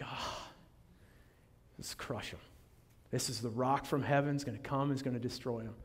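low hushed plotting; conspiratorial whisper. Retold or imitated. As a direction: whisper like rebels scheming in secret. Crowd plotting in hope.

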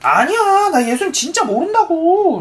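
high-pitched acted cry of protest; shouted denial. A narrator's reading. Peter denies Jesus the last time, crying out in protest. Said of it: "이렇게 소리쳤어".

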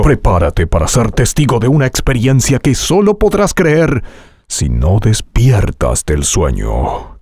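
energetic, driving trailer read; electric trailer voice. Shown as a demonstration. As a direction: keep the energy up. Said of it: "algo más eléctrico".

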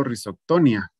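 Rhizoctonia acentuada en TO; sin acento en la I. Shown as a demonstration. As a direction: di Rhizoctonia con la fuerza en TO, final -nia en diptongo. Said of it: "no lleva tilde en la I". (Rhizoctonia, sin acento en la i final)

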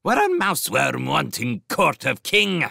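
high, loud sparrow-king voice; snapped. A narrator's reading. Sparrow king confronts the captive mouse, snapping. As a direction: snap it out as an angry bird tyrant. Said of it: "he snapped".

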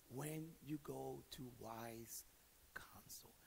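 slow drop to a whisper on wise counsel; hushed whisper. Real, not acted. Preacher hushing the congregation, slow whisper. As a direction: let it fall away to breath.

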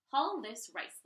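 a loud barked command; loud order. Acted. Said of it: "she ordered".

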